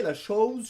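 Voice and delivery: « chose » avec un O qui glisse vers OU; O diphtongué. Shown as a demonstration. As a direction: dire chose presque comme « showze ». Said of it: "on se rapproche un peu de l'anglais". (« chose » à la québécoise)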